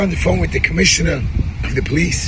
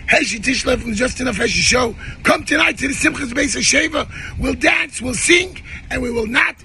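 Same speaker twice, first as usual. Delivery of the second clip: fired-up rally call; 4 semitones higher than usual. Real, not acted. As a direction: voice climbing into hoarse shouts. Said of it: "he's pretty activated".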